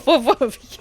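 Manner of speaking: high, loud mock woofs; a cat clumsily playing dog; hammed-up barks and woofs; cat barking like a dog. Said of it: "Tiger has to learn how to be a dog".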